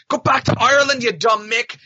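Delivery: high, loud jeer from a crowd; heckler's yell. Retold or imitated. Retelling a film scene of a rando in the crowd, high shouted jeer. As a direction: yell it like a heckler hurling abuse. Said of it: "in the crowd goes".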